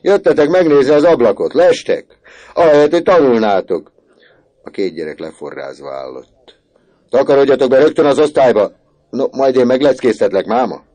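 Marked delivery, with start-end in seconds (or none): 0.0-3.9 much louder, much higher scolding shout; shouting teacher. A narrator's reading. Teacher shouting from the window at boys, furious. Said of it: "kiáltott ki". 7.1-10.8 fast, loud, high yelled command; furious order. A narrator's reading. Teacher ordering boys to class, furious shout. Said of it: "kiáltott ki".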